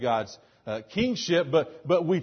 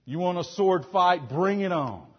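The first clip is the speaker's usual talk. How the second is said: cocky, challenging swordsman, a bit louder; Zorro bravado; 3 semitones higher, 5 dB louder than usual. Acted. Preacher mocks the Zorro attitude with a cocky dare. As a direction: throw down a swaggering dare. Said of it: "we feel like Zorro".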